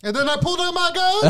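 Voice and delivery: very high, loud put-on voice; hammed-up shouted interjection; mock punchline shout. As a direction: yell it high as a silly joke. Joke interjection in friend's story.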